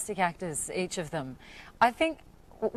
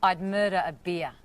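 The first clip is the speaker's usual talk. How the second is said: Australian accent demo; 3 dB louder than usual. Shown as a demonstration. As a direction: model phrase in natural Australian accent. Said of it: "the phrase that you have to learn is".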